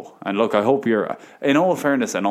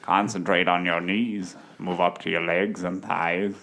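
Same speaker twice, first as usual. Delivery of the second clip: deep slow narrator parody; 4 semitones lower, 4 dB quieter, slower than usual. Pretend.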